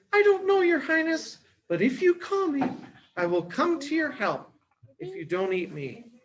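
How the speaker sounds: very high mouse squeak, softening at the end; squeaky mouse voice. Acted. Mouse promising the lion help, high squeak. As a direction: promise timidly in a tiny voice.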